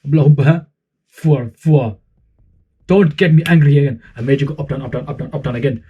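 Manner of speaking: slow, drawn-out praise from a hammed-up Quran teacher; Quran teacher impression. Quran teacher leading the class in a dua, slow and hammed-up. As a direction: play the old-school mosque teacher coaxing his class. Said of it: "Let me show you".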